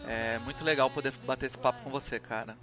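ordinary talk

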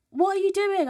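high, loud mock confrontation; confrontational challenge. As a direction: imitate a worker yelling after someone. Acted quarrel with cinema worker.

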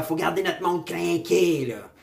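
mock rallying call, stretched out; mock pep talk. Party insiders briefing before the speeches, mock pep talk. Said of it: "c'est comme, ils se sont briefés avant".

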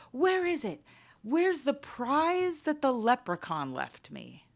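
put-on high child demand. Daughter hunting for prize, high demanding child voice. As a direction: insist like a greedy kid. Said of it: "She's like".

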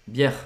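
"Bière" with the R kept at the end; don't drop the R closing "Bière"; final R sounded. Shown as a demonstration. Teacher repeating the word for learners, final R sounded. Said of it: "tem o R no final da palavra".

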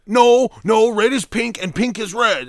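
mock stubborn friend, shrill and loud; mocking Pino. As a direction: squeal the friend's nonsense back, way up high. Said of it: "he's gonna say something like".

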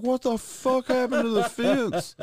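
host stunned to find his fence busted; mock shock. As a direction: sound stunned at the broken fence.

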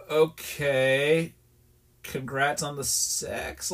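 slow, hesitant congratulations; awkward reply. Retold or imitated. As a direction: drag it out, unimpressed and uneasy. Awkward reply to oversharing coworker.

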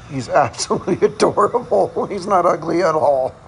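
laughing through the words after the joke. Real, not acted. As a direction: giggle as you take it back. Joke reveal, laughing at herself.

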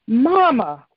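angry yell. A narrator's reading. Daughter yells at her mother to face her, angry call. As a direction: snap her name to make Mama turn. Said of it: "LaTanya yelled".

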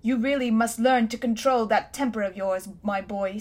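lightly cool and superior. Acted. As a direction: lecture the boy calmly. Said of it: "said Uncle Andrew coolly".

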